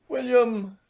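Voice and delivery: high, knowing wife's call. A narrator's reading. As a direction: say his name knowingly. Wife voiced in story.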